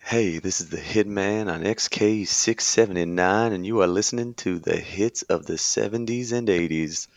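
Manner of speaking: lightly voiced cool radio host; a hint of a cool late-night DJ; whisper hitman voice. Shown as a demonstration. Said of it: "that whisper hitman voice".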